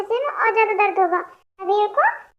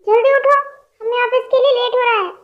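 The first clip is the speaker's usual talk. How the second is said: calling out; 3 semitones higher, 4 dB louder than usual. Acted. Waking a sleeping girl.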